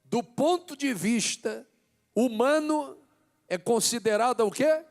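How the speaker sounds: loud, high, impassioned preacher shouting to the church; fervent sermon climax, nearly shouted; preaching at full force. Acted. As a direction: build to fiery pulpit preaching, hammering each phrase.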